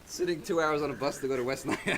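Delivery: laughing while you talk. Real, not acted. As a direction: chuckle through the line. Laughing at own complaint.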